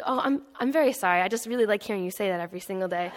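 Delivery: apologetic, then chuckling through it; gently teasing old man, laughing; mild amused old gentleman; sly old man. Retold or imitated. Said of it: "the old man said".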